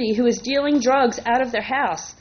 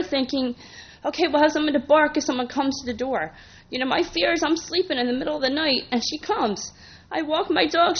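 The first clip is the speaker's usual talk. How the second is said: emotional; 3 semitones higher than usual. Real, not acted. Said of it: "forgive me if I get very emotional".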